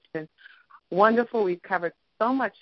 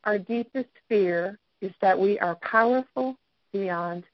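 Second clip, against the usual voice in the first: reading a quote. Shown as a demonstration. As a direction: read it out with weight. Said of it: "And it says".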